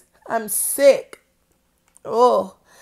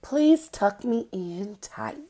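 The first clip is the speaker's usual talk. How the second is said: sleepy yawn; 2 semitones lower, slower than usual. Acted. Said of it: "A yawn".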